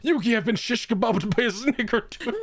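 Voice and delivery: high-pitched mock old-man lament; hammed-up grandpa reporting his injury; injured grandpa. Acting injured Grandpa to Yugi.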